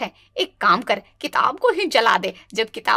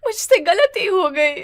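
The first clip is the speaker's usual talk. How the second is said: tearful apology; 4 semitones higher than usual. Acted. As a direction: sob out the apology. Bride begs after burning book.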